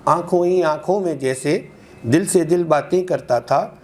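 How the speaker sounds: lilting metre with lifted line ends; ghazal recitation. Acted. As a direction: recite in even rhythmic half-lines, repeating for the audience. (मुशायरे में ग़ज़ल का लयदार पाठ)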